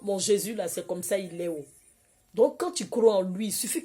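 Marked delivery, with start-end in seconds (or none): 0.0-1.6 soft, calm answer; calm reply. Retold or imitated. The speaker answering her excited colleague calmly. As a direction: answer gently, unshaken. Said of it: "je suis restée calme".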